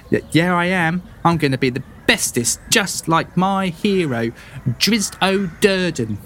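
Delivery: put-on high, chest-puffed little boy; proud boy. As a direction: kid showing off his hero. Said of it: "He's like".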